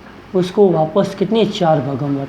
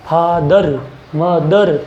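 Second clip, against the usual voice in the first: फादर and मदर each split into two firm beats; stressed syllables; much slower than usual. Shown as a demonstration. Teacher showing where stress falls, stressed syllables. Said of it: "जोर दिया।".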